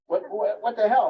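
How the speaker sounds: hammed-up frustrated mother; half-playful indignant cry, high and loud; mock exasperated outburst. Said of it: "if you say it in a complaint, you go".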